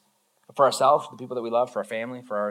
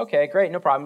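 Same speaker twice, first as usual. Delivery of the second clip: mock breezy friend; 4 semitones higher, 5 dB louder than usual. Friends replying to excuse.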